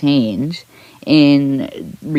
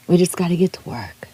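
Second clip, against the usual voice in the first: whispered; faster than usual. Real, not acted. Rallying viewers.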